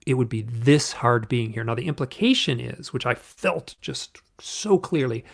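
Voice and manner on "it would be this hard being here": slow, louder accusation with mild anger; heavy, drawn-out reproach, stressing each word; retold yelling. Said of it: "like, yelling in".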